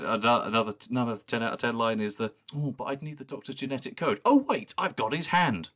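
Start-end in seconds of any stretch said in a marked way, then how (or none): 2.5-5.7 high, mock-surprised villain; camp villain voice. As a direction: fake a sudden realisation. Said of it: "Brilliant delivery".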